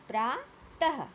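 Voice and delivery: प्रातः split in two, ending in a clear h; teacher's model of प्रातः with h after त; visarga demonstration. Shown as a demonstration. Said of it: "त के बाद ह". (प्रातः, त के बाद साफ़ ह)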